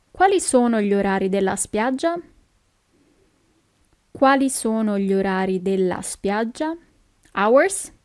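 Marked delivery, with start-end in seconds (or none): 4.1-6.7 measured, careful question. Shown as a demonstration. Teacher repeats slower for learners.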